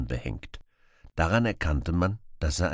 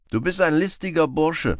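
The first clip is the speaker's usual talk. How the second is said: lively Robin Hood; 11 semitones higher, 7 dB louder than usual. Acted. Robin voiced.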